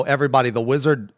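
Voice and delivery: normal talking voice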